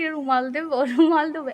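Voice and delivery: playful teasing repeat, laughing; husband teasing his crying wife, laughing. Retold or imitated. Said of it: "তোমাদের দাদাভাই বলতো কি".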